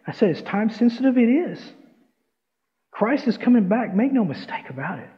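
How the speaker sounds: urgent pulpit proclamation; earnest preaching. Real, not acted. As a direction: preach it with conviction, phrase by phrase. Preaches the story's lesson.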